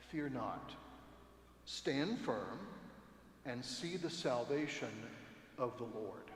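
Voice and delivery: calmly steady a frightened crowd; gentle calm command; calm reassurance. Retold or imitated. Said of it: "in a pretty calm voice".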